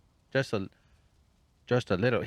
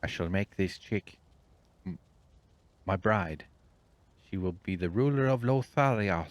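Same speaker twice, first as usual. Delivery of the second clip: 1 grand villain; 6 dB louder than usual. Pretend. Voicing a villain claiming chick.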